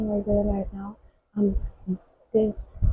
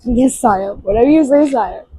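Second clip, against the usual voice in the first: sarcastic; 5 dB louder than usual. Retold or imitated. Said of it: "Azad is so sarcastic".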